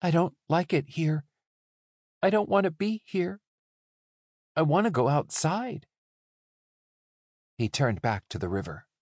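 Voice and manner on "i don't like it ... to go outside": higher-pitched, tense protest. A narrator's reading. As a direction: plead to get out, voice pitched up. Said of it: "his voice tense".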